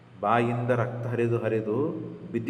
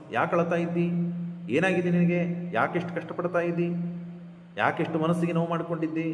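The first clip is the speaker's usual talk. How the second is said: higher rattled-off mock questions; rapid feigned concern; 5 semitones higher than usual. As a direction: fire off the fake-caring questions. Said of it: "ಪಟ ಪಟ ಪಟ ಅಂತ ಕೇಳಿದರೆ".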